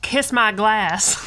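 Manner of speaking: slow, drawn-out mock southern twang; imitating Gacy. Host quoting Gacy in a slow mock southern accent. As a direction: drag out a southern drawl as the killer. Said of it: "as Gacy would say".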